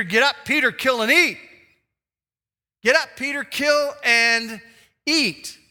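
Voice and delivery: God's voice calling Peter to rise; booming voice of God. Acted. God commanding Peter, a loud call.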